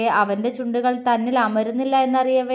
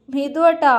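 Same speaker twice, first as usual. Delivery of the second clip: coy whine; 3 semitones higher than usual. Acted. Aishu whines Mithu's name, shy and coy. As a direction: whine his name shyly. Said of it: "Aishu ചിണുങ്ങി".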